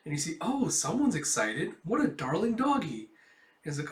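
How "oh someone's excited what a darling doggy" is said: cooing lady. Acted. Lady coos at dog.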